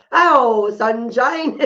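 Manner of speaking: put-on a pet raven greeting sunshine in a British accent. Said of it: "he learned to say".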